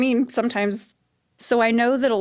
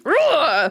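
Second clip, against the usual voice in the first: tennis grunt; 7 semitones higher, 4 dB louder than usual. Pretend. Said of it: "grunt like a tennis player".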